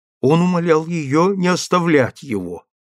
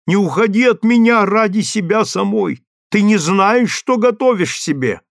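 higher, louder, begging desperately; pleading husband; 8 semitones higher, 6 dB louder than usual. A narrator's reading. Husband begging his wife not to leave him, higher and louder. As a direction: plead as if she is already leaving.

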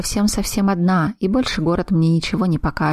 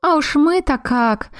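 joyless scoff; 9 semitones higher, slower than usual. A narrator's reading. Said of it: "невесело хмыкнула Криона".

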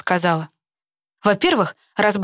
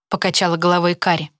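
plain reading voice

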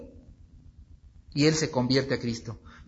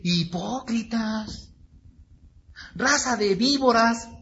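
acted denunciation; 6 semitones higher, slower than usual. Preacher as Jesus confronting religious leaders, ringing denunciation. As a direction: proclaim it slowly in a raised accusing voice.

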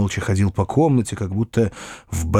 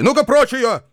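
angry commands; 9 semitones higher than usual. A narrator's reading. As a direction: assert your mastery in fury. Uncle raging at servant. (яростный высокий крик господина)

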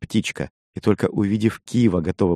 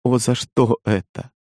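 tearful; 5 semitones higher, slower than usual. A narrator's reading. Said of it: "Она заплакала".

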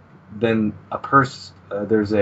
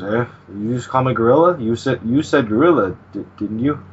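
indignant; 3 semitones higher, 5 dB louder than usual. Retold or imitated. Character indignant at gorilla insult.

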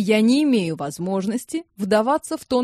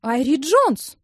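indignant; 5 semitones higher, 3 dB louder, slower than usual. A narrator's reading. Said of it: "возмутилась Клара".

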